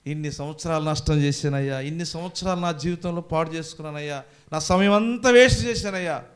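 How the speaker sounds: mock weeping, building to loud, high; imitated tearful lament. Congregant crying on New Year's Eve over wasted years, imitated. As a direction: imitate a regretful wail, swelling at the end. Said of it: "ముప్పై ఒకటి night ఏడుస్తాం".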